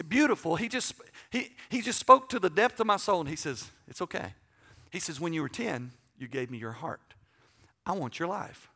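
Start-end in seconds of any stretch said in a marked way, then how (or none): 3.9-4.3 soft, hushed reassurance; quietly soothe, as God answering a prayer; tender and much softer; gentle reassurance. Retold or imitated. 5.2-8.7 soft, measured voice of God; tender, hushed and unhurried; gentle, solemn. Retold or imitated. God gently answering his prayer.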